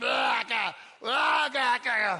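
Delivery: very slow, bellowed gibberish sounds and grunts. Showing the noise made while scratching the belly: imitating belly-scratching noises. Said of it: "making a noise like".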